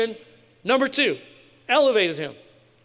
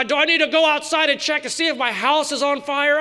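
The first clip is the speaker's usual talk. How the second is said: mock panicked neighbor; 4 semitones higher than usual.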